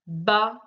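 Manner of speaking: "Baleine" as ba, lei, ne with pauses; three separate beats on "Baleine", final e sounded; split into syllables. Shown as a demonstration. Teacher correcting the syllable exercise, split into syllables. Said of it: "Deuxième syllabe".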